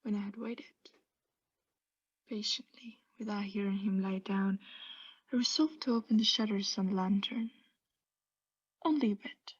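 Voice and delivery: whispered narration. Acted. Madman describing opening the lantern, hushed whisper. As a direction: breathe the words, barely there.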